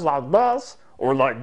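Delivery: brief goofy put-on voice; comic voice with distorted vowels; silly voice. Shown as a demonstration. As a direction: slip into the silly voice. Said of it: "the silly voice that I use".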